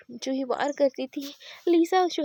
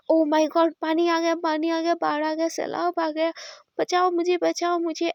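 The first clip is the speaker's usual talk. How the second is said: loud, higher cries for help, startled awake; panicked shout; 4 semitones higher, 4 dB louder than usual. Acted. Lisa doused with cold water, yelling for help in mock panic. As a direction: yell like you're drowning in a flood, half joking. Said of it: "ऐसे बोल के वो चिल्लाने लगती है".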